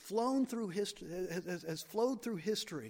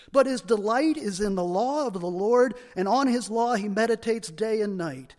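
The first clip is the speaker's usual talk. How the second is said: loud, solemn Psalm reading; scripture reading; 9 dB louder than usual. Acted. Pastor reading Psalm one to the congregation, loud and solemn. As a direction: proclaim the psalm to the hall.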